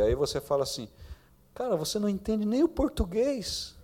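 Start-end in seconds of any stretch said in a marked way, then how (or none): 1.5-3.8 coached comeback, pitched higher; defiant retort. Retold or imitated. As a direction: challenge him as an indignant equal. Pai ensaia a réplica da filha.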